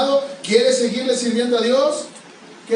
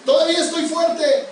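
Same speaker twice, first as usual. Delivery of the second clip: boastful Caleb; 6 semitones higher than usual. Retold or imitated. Preacher mocking boastful Caleb, bragging. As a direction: puff yourself up like a proud old man. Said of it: "el presumido de Caleb".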